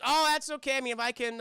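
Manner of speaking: high, airy politeness; polite reassurance. Retold or imitated. Agent to the man at the door, politely reassuring. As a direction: imitate a politely brushing-it-off agent.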